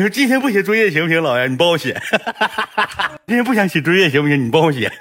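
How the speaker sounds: put-on lightly high child voice coaxing; wheedling kid. Grandson coaxing grandpa to do his homework, lightly high. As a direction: sweet-talk grandpa like a lazy grandson.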